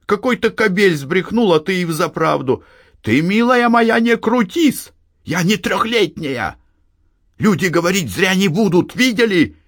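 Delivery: put-on high nagging old woman voice; scolding mother. A narrator's reading. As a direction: press her daughter, reproachful. (мать допытывается у дочери, укоряя)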